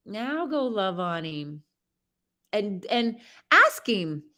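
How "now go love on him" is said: soft repeat. Shown as a demonstration.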